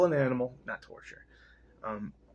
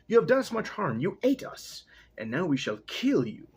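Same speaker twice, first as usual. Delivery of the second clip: raised pitch, a hammed-up threat; angry barnyard dogs; 5 semitones higher than usual. Dogs threatening the wooden men, hammed-up high voice. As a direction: snarl it up high like a wronged dog.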